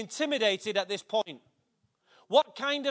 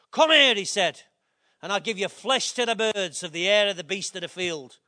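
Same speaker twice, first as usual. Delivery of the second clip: put-on Scottish accent; 3 semitones lower than usual. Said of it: "Almost like in a Scottish accent".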